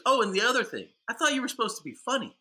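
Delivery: high, quick imitation of a woman; retold cutting scolding. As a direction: imitate a lady piling on an insult. Retold lady insults him.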